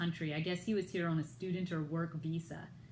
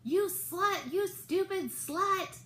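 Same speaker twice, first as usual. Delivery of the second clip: much higher, loud imitated yelling; mock screamed insult; 12 semitones higher, 4 dB louder, much slower than usual. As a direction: hurl the insult across the lobby, imitating. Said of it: "screamed out at me".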